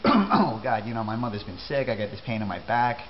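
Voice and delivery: Oh, God burst out loud, then a light whine; hammed-up complaining acquaintance; mock complaining. Teacher imitates a guy unloading his troubles, mildly mocking. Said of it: "And then he says to me".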